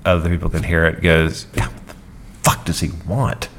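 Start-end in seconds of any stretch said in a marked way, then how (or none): 1.5-3.5 under his breath. Retold or imitated. Actor grumbling about the director under his breath. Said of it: "Sort of under his breath".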